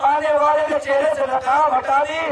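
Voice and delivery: sermon voice climbing to a high cry; impassioned lament preaching. Acted. Preacher's climax in retold scene. (जोश और दर्द से चढ़ती मसायब की आवाज़)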